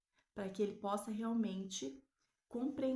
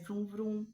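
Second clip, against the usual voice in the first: vrum imitado; 4 dB louder than usual. Retold or imitated. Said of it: "o carro faz".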